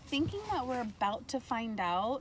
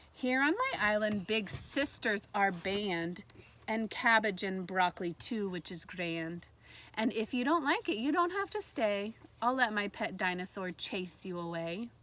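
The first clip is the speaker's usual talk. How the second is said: story reading. Acted. Teacher reading the island book to students, lively read-aloud. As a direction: read the island verse to young listeners.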